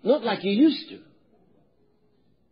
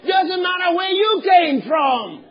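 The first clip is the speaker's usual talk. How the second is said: preaching exhortation; 5 semitones higher, 3 dB louder than usual. Real, not acted.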